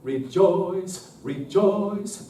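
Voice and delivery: "Rejoice" cut off crisply at each rest. Shown as a demonstration. Choir director shows a check on each rest, crisp. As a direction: stop each "rejoice" short. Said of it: "put a check on each rest".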